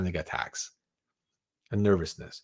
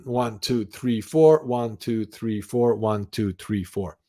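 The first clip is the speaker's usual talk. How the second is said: slow, even counted beats; counting slowly; slower than usual. Shown as a demonstration. Coach counting breaths for the viewer, slow and even. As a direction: count the seconds out evenly. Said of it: "You can tap your fingers".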